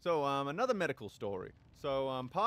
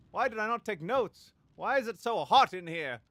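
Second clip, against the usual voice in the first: exasperated; 6 semitones higher, 7 dB louder than usual. Real, not acted. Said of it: "frustrated outbursts".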